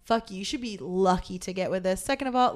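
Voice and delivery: pretend comeback. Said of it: "I just wanna be able to be like".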